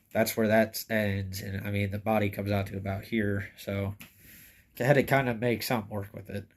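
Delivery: stuffed nose from a cold; tissues in nose. Real, not acted. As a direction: talk with tissue plugging the nostrils. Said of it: "If I sound a little funny, I'm kinda sick right now. I got tissues in my nose".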